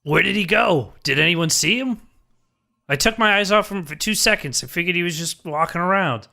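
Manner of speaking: high-pitched, flustered Lucas; mortified Lucas. Acted. Lucas frantically tells the party he lost sight of Corey, mortified. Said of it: "Lucas is mortified".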